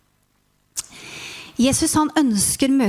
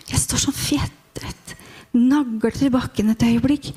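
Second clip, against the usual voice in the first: awed whisper. Acted. Awestruck frozen moment.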